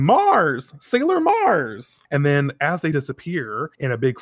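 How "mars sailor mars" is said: high mock yell, last word drawn out; retold yell. Sailor Moon yelling as her friend disappears, acted high yell. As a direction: yell the name as if acting out a manga scene. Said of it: "Sailor Moon is yelling".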